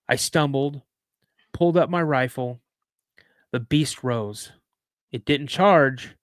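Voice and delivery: measured, dramatic campfire storytelling; story narration. A narrator's reading. Host reading a cryptid encounter to listeners, measured storytelling.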